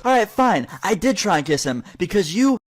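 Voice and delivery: high-pitched mock outburst; breaking character. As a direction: imitate her snapping into a confession. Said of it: "she just completely breaks character".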